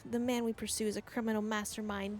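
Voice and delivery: emphatic, almost Australian character voice; loosely Australian-accented dramatic declaration. Acted. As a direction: read it out with a hint of Australian. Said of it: "I give Hildebrand almost Australian accent".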